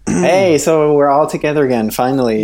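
echoing small room, a little tinny; echoey laundry room. Real, not acted. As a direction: talk from inside a small tiled room. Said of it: "That's why I sound a little bit echoey".

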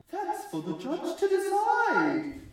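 high, slow robot voice. A narrator's reading. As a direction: speak like a stiff machine. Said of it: "the robot says".

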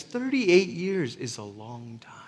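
whispered aside. Real, not acted. Preacher confiding to congregation in a whisper. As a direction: drop to a whisper for weight. Sermon point dropped to whisper.

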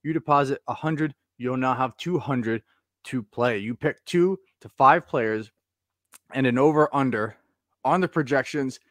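upbeat sponsor read. Acted. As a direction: read the promo like a radio spot.

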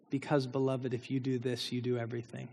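John's quiet answer. Retold or imitated. Old John answering his frustrated followers, softly. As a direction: say it gently, like an old man's truth. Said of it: "his answer was".

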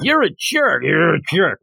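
playful trash talk, starting high; mock trash talk. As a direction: slip in a joking insult, as if half hidden. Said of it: "say trash talk and then change it".

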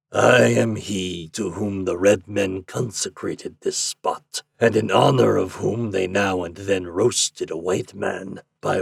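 lightly voiced sinister stranger; a hint of menacing devil.

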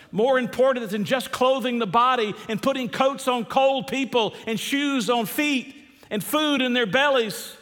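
high, driving pulpit voice; fervent preaching. Real, not acted. Preacher builds to full force.

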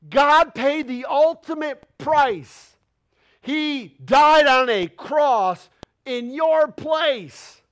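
slow, loud, building to a cry; fervent preacher rising to a shout; passionate preaching. Real, not acted. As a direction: preach it at full force. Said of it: "I'm getting loud".

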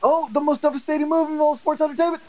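high mock-announcer sarcasm; sarcastic hype. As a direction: oversell it like a wrestling commentator.

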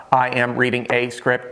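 lightly imitated robot voice, even and mechanical. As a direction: read it like a bored machine. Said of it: "sound like a freaking robot".

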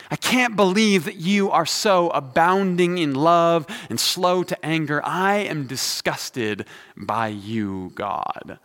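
sarcastic disgust spelled out slowly; a hint of a bitter prophet sneering at God; mock-furious Jonah. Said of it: "this is supposed to be Jonah furious".

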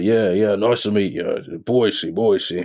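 imitated Cockney, lightly done; a hint of proper Cockney in a friendly greeting; Paul Anderson. Actor greeting a new castmate, light Cockney impression. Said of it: "Is that his actual accent?".

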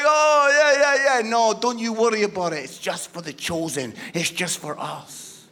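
mock the snobbish in-crowd; mild mock elitist church voice; smug insider. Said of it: "we're all like".

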